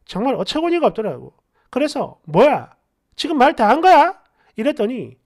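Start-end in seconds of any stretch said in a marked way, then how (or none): 2.3-4.2 louder, affronted challenge; indignant retort. Acted. Girlfriend answering her yelling boyfriend, affronted. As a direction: challenge him, mildly outraged.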